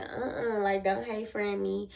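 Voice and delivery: unhurried, no-yelling brush-off; calm refusal. Retold or imitated. Telling a friend not to 'hey friend' her, calm refusal. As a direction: reenact a measured refusal without yelling. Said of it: "I said it just like that".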